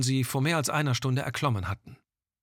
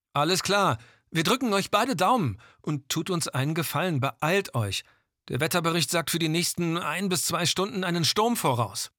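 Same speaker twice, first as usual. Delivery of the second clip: over walkie talkie; 5 semitones higher than usual. Acted. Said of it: "krächzte die Stimme".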